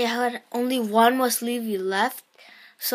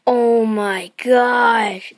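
awed; 5 dB louder, much slower than usual. Real, not acted. Stretched out in awe.

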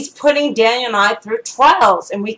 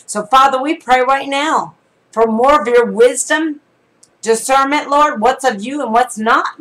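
raised, fervent prayer voice; spoken prayer. Acted. Preacher praying for viewers' discernment, fervent. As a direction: pray over them for discernment.

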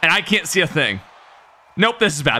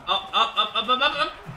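laughing; 5 semitones higher, 6 dB quieter than usual. Real, not acted. Laughing hype.

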